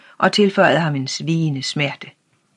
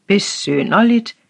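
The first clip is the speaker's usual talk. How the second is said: a wondering exclamation, pitched up; loudly astonished; 5 semitones higher, 3 dB louder than usual. A narrator's reading. Old official marvels aloud at the boy's answer. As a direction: say it aloud in open amazement. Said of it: "stadig højlydt forundret".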